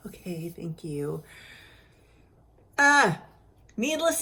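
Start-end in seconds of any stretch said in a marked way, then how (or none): 0.1-1.2 small whispered okay thank you. Retold or imitated. To the nurse, tearful and drained, a whispered thanks. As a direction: breathe the thanks out, worn down.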